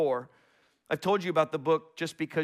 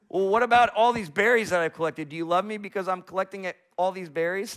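put-on eager, raised child's plea; eager little squirrel; 4 semitones higher, 4 dB louder than usual. Squirrel son showing his father the berries, eagerly. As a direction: push it out hopefully, like a kid showing off. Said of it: "the son runs around asking".

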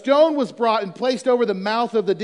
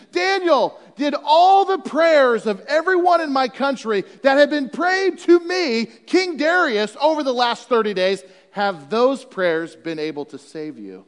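higher, louder mock shout; mock yell; 5 semitones higher, 4 dB louder than usual. King yelling about his own prayers, mock shout. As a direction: yell it down into the pit in mock boast.

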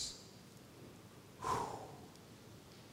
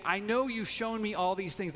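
lightly voiced Moses, a touch higher; mild reluctant Moses; a hint of Moses pleading; voicing Moses; 6 semitones higher, 3 dB louder than usual. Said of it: "he's basically saying".

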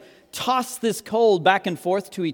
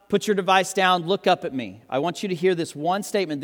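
ordinary talk, nothing marked

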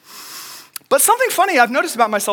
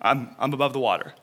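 calm self-talk; faster than usual. Retold or imitated. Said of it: "I was able to collect myself".

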